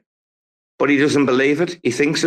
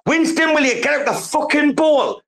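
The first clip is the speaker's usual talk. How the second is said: high-pitched call at the dog; scolding the dog. Real, not acted. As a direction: snap at the dog to leave the bowl. Owner calls out to his dog.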